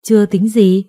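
mildly indignant echo question; incredulous echo. Acted. Boyfriend's mother challenges the girl, incredulous. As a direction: throw the answer back in disbelief. Mother throws the answer back.

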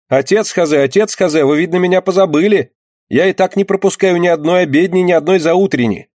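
put-on a pious girl hurt at being ignored; pleading girl. A narrator's reading.

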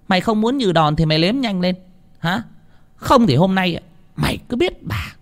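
bully her into obeying; threatening mistress. A narrator's reading. (bà chủ đe dọa, giọng cao)

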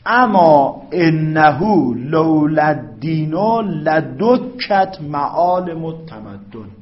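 very slow, loud, drawn-out reading of Arabic; slow Arabic recitation. Acted. Teacher reads the Arabic example aloud for class, slow recitation. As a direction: recite each word loudly and slowly.

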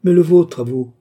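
loud, high-pitched comeback; quick retort. A narrator's reading. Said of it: "riposta Oliva".

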